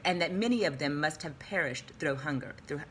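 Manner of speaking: reading with a mouthful; mouth full. Real, not acted. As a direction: talk around a mouthful of food. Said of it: "I got a mouthful going on".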